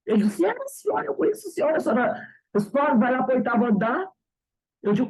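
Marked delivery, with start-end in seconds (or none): 0.4-4.1 high, excited, half-laughing insistence; he insists it was her. Retold or imitated. Young neighbor laughing at her in the elevator, excited.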